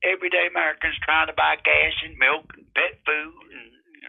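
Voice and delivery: put-on folksy drawling old-timer; old prospector. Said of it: "Now, now, now".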